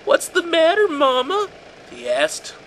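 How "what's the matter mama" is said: high, loud, menacing edge; angry tone creeping in. A narrator's reading. The son turning on his frightened mother, high and menacing. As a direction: let the anger leak into the sweetness. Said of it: "an angry tone entering his voice".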